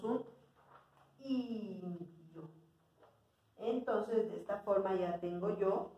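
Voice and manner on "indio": softly lengthened "indio"; drawn out. Shown as a demonstration. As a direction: stretch the first vowel of "indio". Teacher sounds out word while writing.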